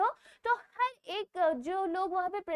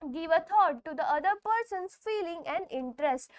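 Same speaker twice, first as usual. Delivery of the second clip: reads the rule slowly, word by word; slow reading aloud; slow textbook reading; much slower than usual. Shown as a demonstration. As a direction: dictate it slowly for students. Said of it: "next है".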